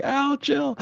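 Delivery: very high, soft falsetto; mock pleading reply. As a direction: squeak a playful brush-off to the boss. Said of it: "And I'll be like".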